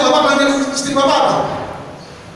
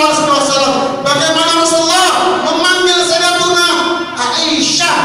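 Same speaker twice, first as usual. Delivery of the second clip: raised preaching voice, pressing the congregation; 2 semitones higher than usual. Acted. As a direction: preach it out with conviction. Preacher addresses congregation forcefully. (khotbah yang berapi-api)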